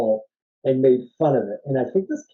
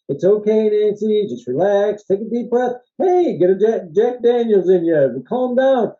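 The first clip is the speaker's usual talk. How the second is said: lightly voiced pilot talking her down; a hint of a patronizing calm-down; mock soothing pilot; 5 semitones higher than usual. Pilot soothing a stewardess over the radio, mock calm.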